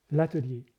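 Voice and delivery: ATELIER set apart and firmly weighted; pause, then land clearly on l'atelier; stress on ATELIER. Shown as a demonstration. Singer explains which words to accent, stress on l'atelier. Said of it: "Donc on accentue".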